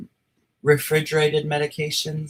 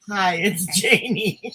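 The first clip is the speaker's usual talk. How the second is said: mock self-intro; 3 semitones higher than usual.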